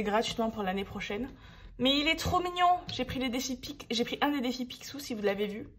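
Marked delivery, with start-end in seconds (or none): 1.8-2.8 delighted gush. Real, not acted. Gushing over a cute item. 2.9-5.7 talking between sips of a drink; speaking while drinking; while sipping a drink. Real, not acted. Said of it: "Désolée, je bois en même temps".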